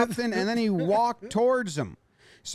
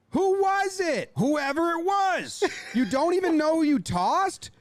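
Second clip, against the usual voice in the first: lip-read manager; 6 semitones higher than usual. Retold or imitated. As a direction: press the umpire, baffled. Voicing the manager asking umpire.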